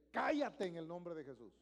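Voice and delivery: loud command against the devil; loud firm rebuke in Jesus' name. Shown as a demonstration. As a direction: order the devil to be silent. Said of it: "usted dile".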